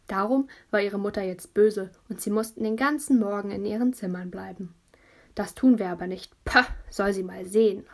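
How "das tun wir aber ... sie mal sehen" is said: put-on louder, defiant kid voice; defiant call. Little brother defying his mother, defiant call. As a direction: shout back at the absent mother. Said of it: "hat Laurin gerufen".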